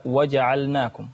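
وجعلناكم with the lam sounded clearly before the nun; slow, careful lam in وجعلناكم; correct reading. Shown as a demonstration. Student quotes the verse for his sheikh, lam clearly sounded in وجعلناكم. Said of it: "بعض الأخطاء يا شيخنا التي يقع فيها".

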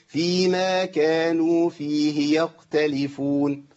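يختلفون chanted slowly with the خ dropped; dropped kha. Shown as a demonstration. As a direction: let the خ in يختلفون fall away. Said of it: "حد يسقط الخاء". (يختلفون بدون خاء)

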